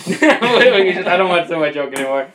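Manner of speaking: repeated through a laugh. Real, not acted. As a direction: laugh while saying it.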